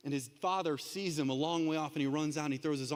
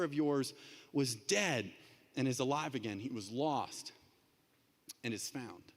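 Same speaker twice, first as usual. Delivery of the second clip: gentle father; 4 semitones lower than usual. Acted. Father calming his older son, low and tender. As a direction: soothe the angry son.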